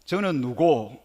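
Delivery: blunt, compressed Gyeongsang question; Gyeongsang dialect. Shown as a demonstration. Teacher showing how Gyeongsang asks about a child, blunt Gyeongsang accent. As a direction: ask it tersely in Gyeongsang dialect. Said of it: "이 경상도 버전은".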